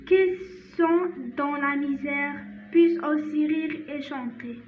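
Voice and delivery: slow, measured French recitation with long pauses; poem read-aloud. Shown as a demonstration. Teacher reads a Christmas poem to learners, slow careful recitation. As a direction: read it out phrase by phrase, slowly.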